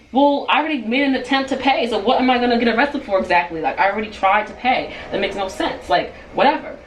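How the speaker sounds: mildly heated retort, as retold; retold mad protest. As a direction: argue back, fed up. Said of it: "going off, and I'm starting to get really mad".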